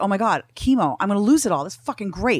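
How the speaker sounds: mock thrilled, giddy, gushing, excited outburst. Retelling own past reaction to starting chemo: imitating own excited past self. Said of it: "I was so excited about chemo".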